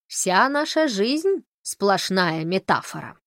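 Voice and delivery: slow, lofty proclamation; proclaiming. Acted. Holly proclaims to the professor, slow and lofty. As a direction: declaim it like a prophet, very slowly. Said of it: "провозгласил Холли".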